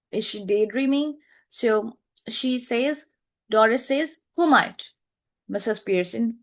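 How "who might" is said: startled question. Acted. Daughter startled by mother.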